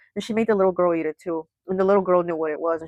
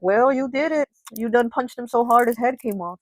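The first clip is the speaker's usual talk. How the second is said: higher-pitched, accusing mom imitation; mock blaming mother; 5 semitones higher than usual. Mom blaming her daughter for the deed, accusing. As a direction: pin it on the child, pitched up.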